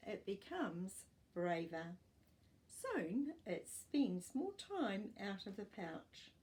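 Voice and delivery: put-on clear, even storybook reading for young pupils; reading to children. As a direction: read it like a class picture book. Teacher reads picture book aloud.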